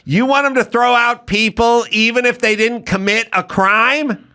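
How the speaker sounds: high, indignant mock voice; mock questioner. Mocking lawmakers grilling Homan, pitched high. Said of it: "They'll go".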